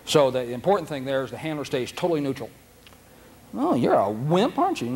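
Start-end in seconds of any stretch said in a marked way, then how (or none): 3.6-5.0 mock coddling. Owner wrongly soothing a fearful dog, mock sweet. Handler comforting a scared dog.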